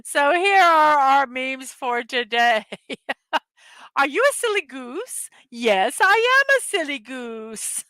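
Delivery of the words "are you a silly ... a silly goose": playful meme voices. Acted. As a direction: act out a silly little exchange. Silly question-and-answer meme read aloud.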